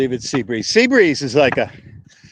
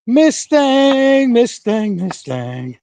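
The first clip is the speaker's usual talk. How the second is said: calling out; 9 semitones higher, much slower than usual. Real, not acted. Calling out to a horse again.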